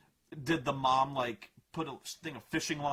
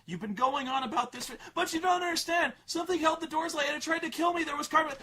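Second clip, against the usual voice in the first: high, upset pleading; pleading girl; 10 semitones higher, faster than usual. Retold or imitated. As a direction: beg him to listen.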